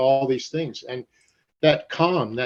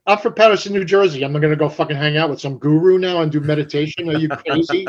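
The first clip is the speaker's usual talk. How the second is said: incredulous scoff; 2 semitones higher than usual. Retold or imitated. Young him rejecting friend's meditation tip, mock scoffing. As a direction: brush off the idea like it's insane. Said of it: "I was like".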